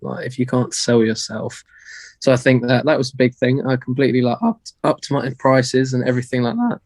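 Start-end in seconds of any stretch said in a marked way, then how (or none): 2.2-6.8 slightly hoarse, losing voice. Real, not acted. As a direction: talk through a worn-out voice. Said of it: "I'm losing my voice a little bit".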